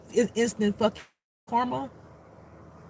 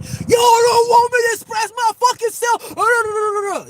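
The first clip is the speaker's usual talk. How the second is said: high, drawn-out angry scream; imitating an enraged man shouting; out-of-control rant; 12 semitones higher, 6 dB louder, slower than usual. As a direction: yell it at full tilt, stretching the words. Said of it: "like, out here with it".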